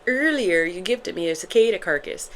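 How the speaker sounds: amateur put-on Irish accent; playful attempt at an Irish accent. Shown as a demonstration. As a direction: try it in a Derry Girls Irish accent. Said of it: "I kept saying it in an Irish accent".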